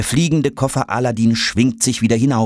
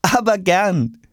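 put-on higher-pitched cheerful boy; amused, obliging; 8 semitones higher, slower than usual. A narrator's reading. Boy to the plastic bag, cheerfully obliging. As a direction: agree brightly, a touch amused. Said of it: "lacht Jonas".

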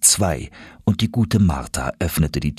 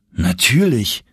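offended; 3 semitones higher, slower than usual. Acted. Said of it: "erwiderte ich beleidigt".

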